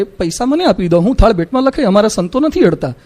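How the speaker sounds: quiet, kind correction; calm and gentle. Shown as a demonstration. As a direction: gently tell the visitor, no scolding. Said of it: "શાંતિથી કહેવાય કે".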